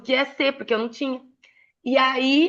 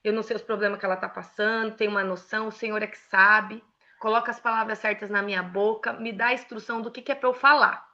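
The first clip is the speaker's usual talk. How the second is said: praying; 3 semitones lower, 4 dB quieter than usual. Shown as a demonstration. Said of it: "Eu oro, falo".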